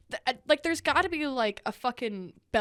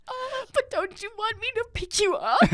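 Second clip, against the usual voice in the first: put-on very high baby-talk coo; doting mother; 11 semitones higher than usual. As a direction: coo like an overprotective mom. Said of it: "I was like".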